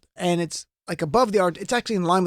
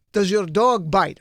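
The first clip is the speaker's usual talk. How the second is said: put-on French accent; slower than usual. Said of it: "my best impression of French".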